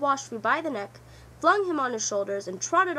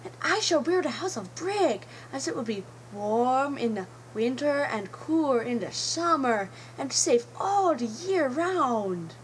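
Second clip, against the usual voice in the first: proud little pig; 3 semitones higher, 3 dB louder than usual. Acted. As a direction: declare it proudly like the clever pig. Third pig proudly plans brick house.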